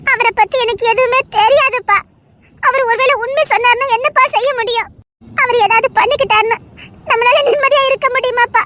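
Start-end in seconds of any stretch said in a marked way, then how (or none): 5.4-8.6 crying plea. Acted. Daughter fears father's suicide.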